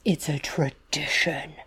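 hushed, slow mock whisper. Host whispers the family tradition to her co-host. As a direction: breathe it like a solemn secret.

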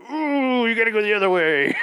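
a campy Aztec oracle warning; mock spooky guide. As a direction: play the cryptic temple guide for laughs. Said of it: "be like".

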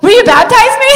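high, loud, emotional imitation of a son's plea; tearful plea. Son asking Caleb to baptize him, tearful plea. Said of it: "with tears in his eyes".

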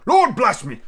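loud, high burst of amazement; astonished cry. Acted. Gentleman astonished by Scrooge's offer, high startled cry. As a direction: exclaim as if utterly taken aback. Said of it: "cried the gentleman, as if his breath were taken away".

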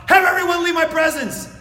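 urgent cry to the attendants; cried out. Acted. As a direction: call out for the room to clear. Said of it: "and he cried out".

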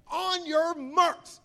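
high, loud, drawn-out race call; big mock starter's shout. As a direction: imitate a brother starting the race, very slowly.

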